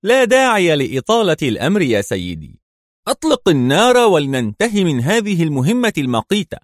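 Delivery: coolly urging him to finish; lightly voiced calm female agent; calm Mona. A narrator's reading. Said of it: "وقالت بهدوء".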